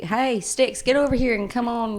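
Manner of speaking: put-on Texas accent. Sister greeting Styx to test him, put-on Texas accent. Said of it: "in my Texas accent".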